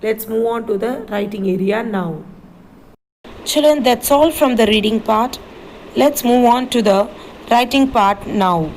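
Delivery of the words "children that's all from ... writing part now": calling the class. Real, not acted. Teacher calling class to attention.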